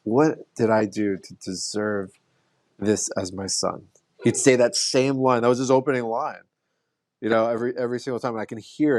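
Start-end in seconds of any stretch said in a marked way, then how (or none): 0.0-3.9 imitating dad. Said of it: "I'm doing it from his voice".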